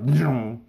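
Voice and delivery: mouth-made whoosh of a cat bolting; imitated zooming cat. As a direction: imitate something zipping away. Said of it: "she's like".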